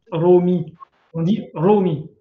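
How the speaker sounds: Romi with the o drawn out and stressed; stress on the omega. Shown as a demonstration. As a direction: insist on the o of Romi. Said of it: "On insiste sur le oméga".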